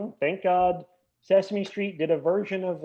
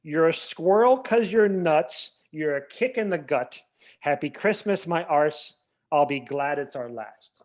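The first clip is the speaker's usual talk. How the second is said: reciting lyrics; 4 dB louder than usual. Retold or imitated. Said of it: "He changed it to".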